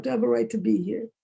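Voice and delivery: quick question to oneself, rising at the end; self-questioning. Retold or imitated. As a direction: ask it in a quick, doubting run. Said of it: "I'm always questioning myself".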